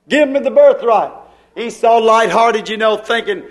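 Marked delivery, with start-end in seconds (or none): 0.1-1.1 preacher pressing the demand with more force; firmer repeated demand. Acted. Jacob pressing Esau for the birthright, firm and insistent. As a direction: push the demand out firmly.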